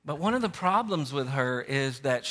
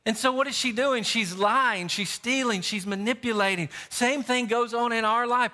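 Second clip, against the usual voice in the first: higher, insistent sermon delivery; emphatic preaching; 5 semitones higher than usual. Real, not acted. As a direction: list the faults with mounting conviction. Preaches the application forcefully.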